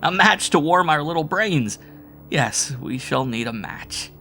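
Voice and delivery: high, loud, mocking then slowing; half-mad jeering; hysterical. A narrator's reading. Howard hysterical.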